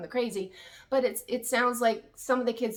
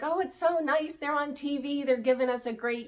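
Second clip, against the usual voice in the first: lightly voiced gushing, pitched up; imitated approving onlookers; 5 semitones higher than usual. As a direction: coo approval as if quoting admirers. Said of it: "plural families out there that are like".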